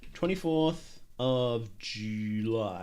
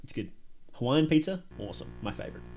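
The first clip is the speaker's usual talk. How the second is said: ordinary talk, nothing marked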